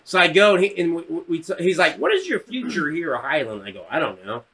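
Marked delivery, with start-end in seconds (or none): 2.0-3.6 lightly voiced froggy counselor; a touch of puppet-frog earnestness; Kermit the Frog. Counselor asking about the future, lightly froggy voice. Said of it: "This guy sounded like Kermit the Frog". 3.9-4.4 low, soft shrug of an answer; indifferent mumble. Retold or imitated. Kid answering the counselor, low and indifferent.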